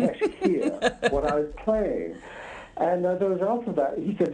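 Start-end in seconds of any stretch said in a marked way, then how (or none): 0.0-2.2 words broken by a real laugh. Real, not acted. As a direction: laugh through the line.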